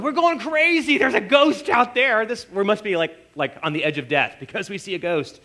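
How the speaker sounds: high, frantic cry of panic; half-acted terror at a ghost; panicked disciples. Disciples in the storm shouting in fear.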